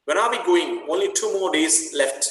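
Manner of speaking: teacher reading a friend's line in a sing-song voice. Acted. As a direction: let the line swing up and down like a tune. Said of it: "she says in her sing-song voice".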